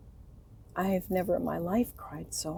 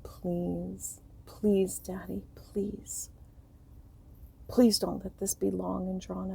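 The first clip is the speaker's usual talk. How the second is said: whispered plea; slower than usual. Retold or imitated. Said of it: "crying out to the Lord".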